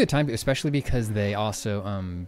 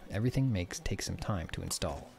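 shipwright voice; 3 semitones higher than usual. Acted. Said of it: "She looks up at you".

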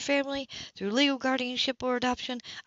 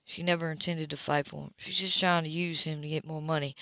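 a touch lower, a man speaking firmly; understated stern man; lightly voiced Philip; 6 semitones lower than usual. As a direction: lower your voice a little for the hard male lead. Philip voiced in a read novel.

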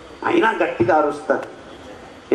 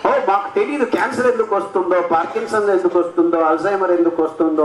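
mocking scientists; faster than usual. Lecturer to audience, mocking scientists in a fast, put-on voice. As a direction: mimic clueless experts, rattling off. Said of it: "అంటూ".

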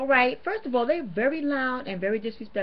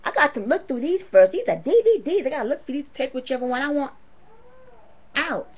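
higher, louder imitation of the worker; mock greedy worker; 5 semitones higher, 4 dB louder than usual. Vlogger imitating the worker at the cart, higher and louder. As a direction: mimic her grabbing the DVDs first.

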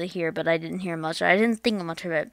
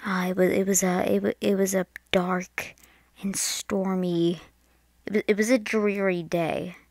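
moody storytelling; 3 dB louder than usual. Pretend. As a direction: set a mock-ominous mood, pausing between phrases. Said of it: "set the mood here".

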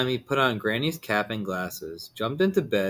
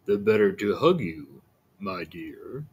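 sly wolf voice; 3 semitones lower than usual. Acted.

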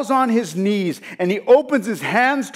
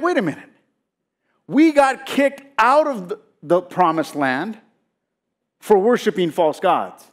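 mad, indignant. Acted. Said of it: "And so he's mad".

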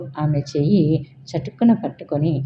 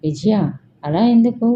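shocked question, higher and louder; stunned, pitched-up why; 5 semitones higher, 3 dB louder than usual. A narrator's reading. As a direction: blurt it out in shock. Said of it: "షాక్గా".

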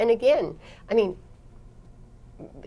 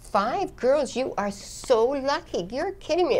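raised pitch, slow, gushing over the news; mock delight; 7 semitones higher, slower than usual. Telling a Taliban father his five girls are lucky, mock delighted. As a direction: pretend to be thrilled, drawn out.

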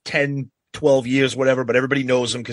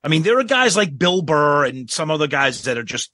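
normal talking voice

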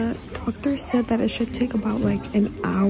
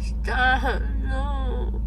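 drowsy tearful protest; crying. Real, not acted. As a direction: cry it out. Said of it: "you're really crying".

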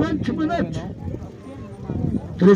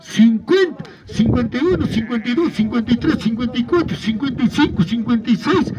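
rhythmic auction chant calling bids; spanish auctioneer. Acted. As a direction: call out each rising bid in turn. Counting up bids live.

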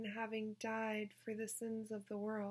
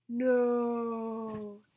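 surprised; 9 dB louder than usual. Acted. Janey's amazed reaction.

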